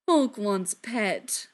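slow, sad Hulk voice; dejected. Acted. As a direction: mope like a sad giant. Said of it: "the Hulk says despondently".

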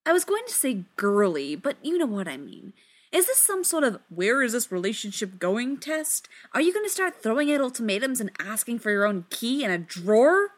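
from calm to mildly frantic; rising hysteria. Acted. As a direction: let the panic climb line by line. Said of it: "the rising hysteria in his voice".

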